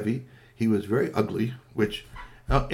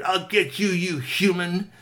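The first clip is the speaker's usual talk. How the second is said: snarling threat; 8 semitones higher, 3 dB louder, slower than usual. Acted. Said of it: "with a snarl".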